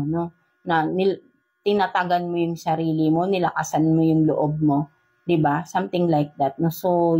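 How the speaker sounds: ordinary talk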